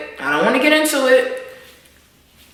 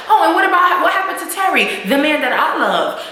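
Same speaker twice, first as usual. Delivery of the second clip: Tasha's accusation; 5 semitones higher than usual. Retold or imitated. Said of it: "she come back with like".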